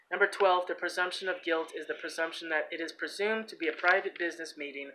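even read-out of a legal text; reading aloud. Real, not acted. Man reading court presumptions to listeners, read-aloud delivery. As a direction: read the document out steadily, clause by clause.

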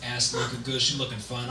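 low, soft, fast street talk; low, hushed guy talking about a girl; indescribable character. Acted. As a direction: ramble low and quick, under your breath. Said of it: "this is my impression of it".

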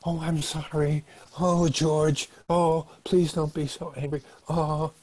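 high, pleading apology; acted anxious appeasing, begging to calm them down; placating. Abused partner soothing an angry George, placating. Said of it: "they try to placate you".

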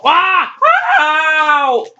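high play cries of pain; mock pain yelps. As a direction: yelp twice as if hit. Wrestler hit in play match.

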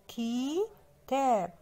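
كتاب very slowly as "keee-taab"; split into syllables. Shown as a demonstration. Teacher revealing the missing letter, كتاب stretched syllable by syllable. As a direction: hold the first vowel of كتاب, then finish the word. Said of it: "وتحتيه كسرة".

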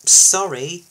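loud, grudging apology; sulky, forceful sorry; sour. A narrator's reading. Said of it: "said Isabella sourly".

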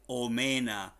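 "omena" slowly, with a long middle vowel; pronunciation demo. Shown as a demonstration. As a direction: model "omena" slowly for learners. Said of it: "se escribe tal y cual como los oyen". (pronunciación modelo de "omena", lenta y clara)

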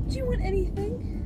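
high-pitched retold question; lightly imitated coaxing sister; imitated sister's offer.

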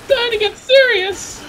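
high, drawn-out rallying shout; big high-pitched hype yell; battle cry. Pretend. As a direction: shout it slowly like a hero gearing up. Hyping up the team mid-game.

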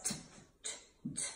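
"T" as a bare tongue tap, no vowel; letter sound demo. Shown as a demonstration. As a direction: sound out "T" in separate ticks. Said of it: "Timmy Tiger says".

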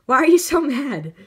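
laughing loudly at a friend's anger. Real, not acted. Teasing a friend who is mad, laughing. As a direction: laugh through the question.

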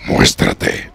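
breathy menacing whisper; whispered taunt. Acted. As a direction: hiss the challenge out, no voice. Repite el desafío susurrando. (susurro amenazante)

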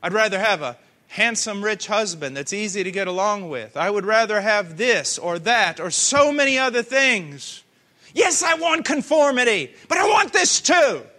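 preacher voicing a worldly objector, rising to a shout; retold protest building to a shout. Preacher mimicking a reluctant believer, building into a shout. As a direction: start calm, climb until you're shouting. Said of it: "And we go".

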